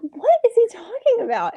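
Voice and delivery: high, incredulous what, pitched well up; confused disbelief; baffled. Retold or imitated. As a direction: sound totally lost about what he means. Baffled by his offer.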